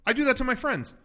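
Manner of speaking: high-pitched acted apology; retold flustered girl. Girl excusing a kiss to the prime minister, acted high and flustered. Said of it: "and then goes".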